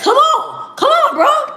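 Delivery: high, loud laughing taunt; old school boxer taunt. Retold or imitated. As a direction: taunt him like a cocky fighter. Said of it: "the old school fighters was like".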